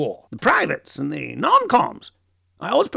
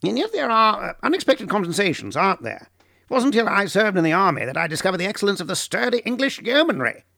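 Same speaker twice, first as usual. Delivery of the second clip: much higher, quicker, cheerful praise; brightening up; 9 semitones higher than usual. Acted. Tolkien cheering the table with the yeomanry, bright and quick. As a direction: lift the mood with fond enthusiasm.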